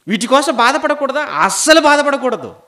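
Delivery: loud, high question and emphatic answer; full-force preaching. Acted. Preacher forbidding grief over worldly things, loud and emphatic. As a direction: declare it firmly at full voice.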